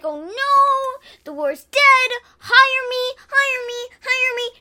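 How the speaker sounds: high, pleading job-seeker; high begging hire me. Acted. Kids retelling Hamilton with voices.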